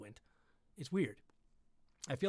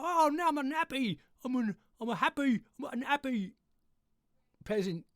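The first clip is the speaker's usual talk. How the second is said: put-on peasant voice; 9 semitones higher than usual. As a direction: play a silly, simple peasant. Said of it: "now we're taking the peasant's view".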